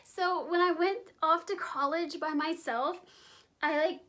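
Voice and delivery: put-on high giggly valley-girl voice; bimbo voice. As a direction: giggle through it like an airhead. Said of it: "I will cut the bimbo voice out".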